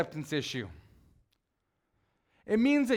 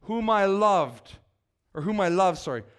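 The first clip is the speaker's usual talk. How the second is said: a touch of the Father's voice. Acted. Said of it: "a voice from heaven said".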